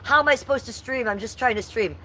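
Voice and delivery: high, pleading mock complaint; whiny quote. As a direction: mimic his whiny excuse. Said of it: "this was his reasoning, saying".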